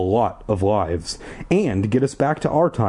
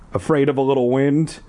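lightly mocking guard, a touch higher; 4 semitones higher than usual. Guard teasing the kids, lightly mocking. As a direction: tease the kids mildly. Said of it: "he asked in a mocking voice".

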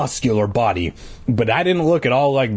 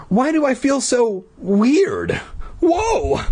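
very high, tiny squeak; squeaky bee voice; 12 semitones higher, slower than usual. Acted. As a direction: squeak like a panicked little bee. Boy turned into bee.

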